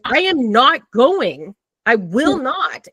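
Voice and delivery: slow, firm, dug-in refusal; stubborn refusal. Retold or imitated. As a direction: refuse flatly and slowly.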